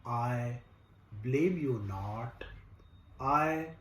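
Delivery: slow, measured recital with long pauses between phrases; poem recitation. Acted. Recites his own poem.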